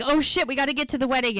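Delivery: lightly acted urgent fluster; mock panic. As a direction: blurt it fast, imitating sudden realisation. Retold man realises he is late.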